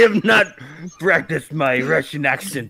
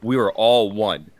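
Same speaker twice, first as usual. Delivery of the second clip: softer, lower conspiratorial pledge; low hushed team pledge; hushed pact; 8 semitones lower, 3 dB quieter than usual. Retold or imitated. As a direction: swear them to secrecy quietly. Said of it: "we're like".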